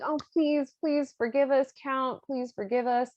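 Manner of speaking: high, hammed-up begging; mock pleading. Caught lovers beg the Count for forgiveness, mock pleading.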